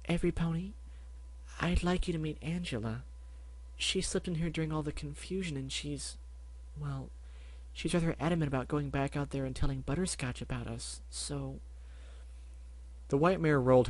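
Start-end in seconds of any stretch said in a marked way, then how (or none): 0.0-11.6 softer, hesitant shy pony; timid Fluttershy. Acted. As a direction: barely dare to speak. Fluttershy introduces the rabbit.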